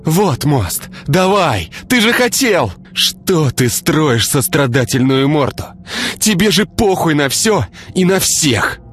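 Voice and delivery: put-on high, raging girl, slowing to spit last words; furious shouting girl. A narrator's reading. Girl screams at Igor, high and furious. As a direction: scream at him while tearing free. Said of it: "Яростно вырываясь ... кричала она".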